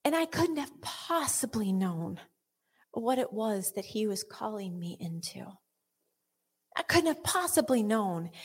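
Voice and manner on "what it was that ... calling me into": unvoiced, hushed line; whispered. Real, not acted. Preacher whispering in reflection. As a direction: whisper it reverently.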